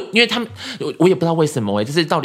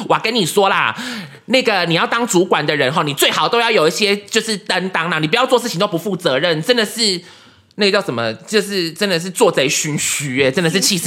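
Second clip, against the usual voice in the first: a hint of a scolding boss lecturing; lightly impersonating a fed-up supervisor; lightly voiced Zhang Tingting. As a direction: lecture the new manager in her style. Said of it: "我现在就要用张婷婷的方式讲话".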